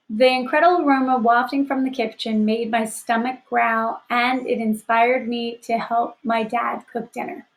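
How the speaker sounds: teacher modelling a sentence; reading the example aloud. Shown as a demonstration. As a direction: read it out clearly for the class. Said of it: "I gave an example of a sentence".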